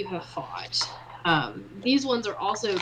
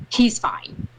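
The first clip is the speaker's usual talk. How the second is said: curt, hushed two-word dismissal; terse half-whisper; short, curt. Acted. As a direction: answer short and to the point, almost whispered. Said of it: "she's short".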